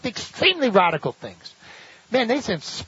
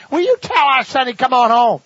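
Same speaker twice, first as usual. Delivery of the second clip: loud, high mock mother calling through the door; 6 semitones higher, 6 dB louder than usual. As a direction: call out like a fed-up mom at the door.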